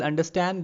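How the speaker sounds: "understand" with the weight on "stand"; stress on third syllable. Shown as a demonstration. Lecturer explaining anapaest, last syllable of "understand" stressed. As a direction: keep "under" light, emphasise "stand" in "understand". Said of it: "we give more emphasis on the third part".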